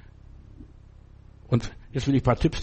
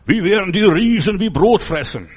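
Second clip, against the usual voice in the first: bold boast; 6 semitones higher, 6 dB louder than usual. Retold or imitated. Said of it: "sagt Josua und Kaleb".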